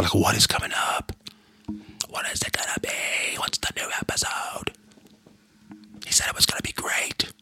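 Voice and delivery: hushed whisper, teasing the listeners. Real, not acted. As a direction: lean into the mic and whisper the tease. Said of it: "why is he whispering".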